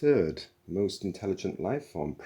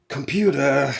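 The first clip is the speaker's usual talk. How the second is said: slow, louder, deliberate address; warning tone; 8 semitones higher, 11 dB louder than usual. A narrator's reading. Zaphod addressing the computer, slow warning. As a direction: draw it out as a warning.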